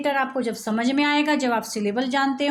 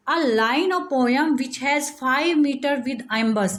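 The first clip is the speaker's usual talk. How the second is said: slow dictation; much slower than usual. Shown as a demonstration.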